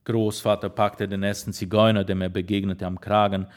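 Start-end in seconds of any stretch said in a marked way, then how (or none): none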